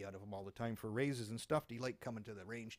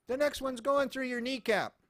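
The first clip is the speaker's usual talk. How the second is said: stern nun threat; 11 semitones higher, 12 dB louder than usual. Retold or imitated. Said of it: "Sister Mary Elephant".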